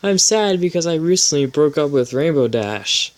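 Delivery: camp up Twilight's sad line; mock Twilight voice. Twilight's lines read aloud.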